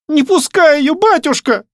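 put-on high, loud child's plea; clinging daughter begging her father, high and loud; little girl's cry. A narrator's reading. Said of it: "воскликнула Танюшка".

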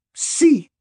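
high, loud, sour yes. A narrator's reading. Mother grudgingly answering the godfather, sour. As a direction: concede it sourly in a high voice. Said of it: "torciendo el gesto".

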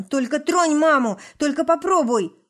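high, loud threatening yell; furious shout. A narrator's reading. Son threatens father.

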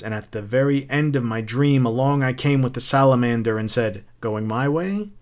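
animated, declamatory taunting; a touch of triumphant speechmaking; lightly voiced mocking Beatty. Captain rebutting Montag with his own books, lightly mocking.

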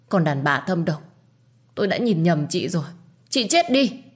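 attack her with hatred; furious. Acted. Woman strangles her rival. (giận dữ gào lên)

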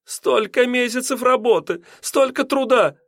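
high-pitched landlady gasping over her lawn; breathy lament. A narrator's reading. Landlady mourning her ruined lawn, breathy and high. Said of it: "с придыханием повторяла она".

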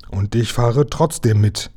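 ordinary delivery, nothing marked

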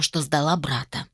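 ordinary delivery, nothing marked

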